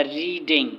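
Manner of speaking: "रीडिंग" split into री and डिंग; syllable by syllable. Shown as a demonstration. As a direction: say "रीडिंग" in two separate beats, री, then डिंग. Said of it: "abstraction आ गया".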